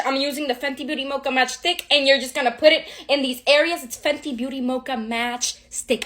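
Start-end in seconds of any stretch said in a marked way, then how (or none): 0.0-1.8 "Fenty Beauty Mocha Match Stick" rattled off fast; rushed. Real, not acted. Naming her contour stick too quickly, rushed. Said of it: "I need to slow the fuck down". 3.8-6.0 "Fenty Beauty Mocha Match Stick" said again slower and softer; slower repeat. Shown as a demonstration. Repeating the product name so viewers catch it, slower. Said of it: "I need to slow the fuck down".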